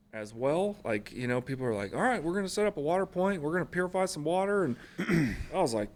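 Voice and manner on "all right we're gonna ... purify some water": mock eager. Mocking eager coworkers.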